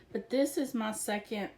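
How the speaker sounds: breathless, winded talking; out of breath. Real, not acted. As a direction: shallow breathing between words. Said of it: "Sorry, I'm out of breath".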